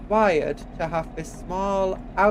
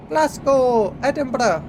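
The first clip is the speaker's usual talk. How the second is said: higher, louder calling out; excited shout; 7 semitones higher, 5 dB louder, slower than usual. Real, not acted. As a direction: call out the city names eagerly. Spotting city signs.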